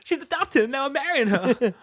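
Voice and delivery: high hammed-up Boston twang; over-the-top Boston accent. Replaying the joke line in a Boston voice.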